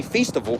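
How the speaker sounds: "festival" said as FEES-ti-val; "festival" turned into "feast-ival"; accented pronunciation. Shown as a demonstration. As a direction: give "festival" a long ee, as if accented. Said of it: "meant to be said with a fucking accent".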